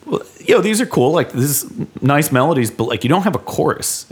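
high, lively imitation of a friend; quoting Matt. Friend's advice voiced in story.

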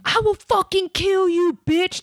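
high, slow mock threat, hammed-up; mock scream. Comic mimics drunk girl threatening her, high mock shriek. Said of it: "starts screaming".

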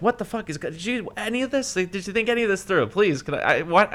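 can't believe how dumb this is; incredulous outburst. Retold or imitated.

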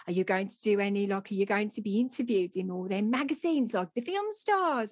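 put-on elderly neighbour's lilting Dudley accent. Elderly neighbour asks author about fame, Dudley accent. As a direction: ask it in broad Dudley. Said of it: "so she, you know, she spoke like me".

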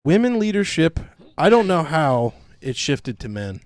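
hammed-up solemn testimony; mock emotional interviewee. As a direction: proclaim it over imagined sappy music. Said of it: "picture the emotional stereotypical music playing".

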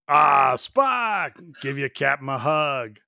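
big boisterous Kirk; hearty Kirk call. Retold or imitated. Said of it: "Kirk is like".

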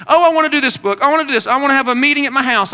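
mock-enthusiastic changer of plans; imitated eager insistence. Woman pitching last-minute Bible study changes to pastor, imitated eagerness.

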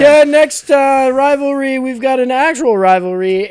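loud, high launch easing down; segment announcer. Pretend. Host cuts in to give Ken next rivalry, loud announcer delivery. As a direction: burst in with the next matchup.

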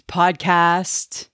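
slow, carefully formed PODCAST; twang-free PODCAST. Shown as a demonstration. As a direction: draw out PODCAST carefully, without southern twang. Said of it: "I've given up my southern twang".

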